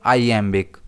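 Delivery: "iambic" as eye-AM-bik; pronunciation demo. Shown as a demonstration. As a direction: put the stress on the "am" of "iambic". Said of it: "इसे हम pronounce करेंगे". ("iambic" को आइ-एम्बिक बोलें, बीच में ज़ोर)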